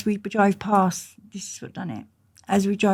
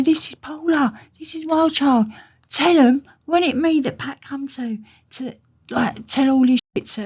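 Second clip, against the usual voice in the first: higher, louder eager boasting; excited introduction; 8 semitones higher, 7 dB louder than usual. Retold or imitated. Friend introducing her to his family, excitedly higher and louder. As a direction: show her off proudly.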